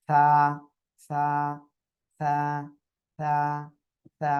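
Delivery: সা with tongue tip on upper teeth, light air escaping; lightly aspirated সা. Shown as a demonstration. Teacher models the letter for the class, lisped airy সা. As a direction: let a little breath out through the teeth on সা. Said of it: "হালকা বাতাস বের হবে".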